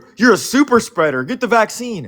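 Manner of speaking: very high, acted-out nagging, complaining reproach. Recounting people telling him to get the vaccine, mock nagging. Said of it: "people bitching at me".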